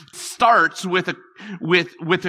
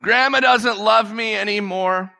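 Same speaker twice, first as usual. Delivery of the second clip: put-on higher, louder childish cry; mock child wail; 6 semitones higher, 3 dB louder than usual. Little boy behind the chair crying out to grandma. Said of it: "I started to scream out".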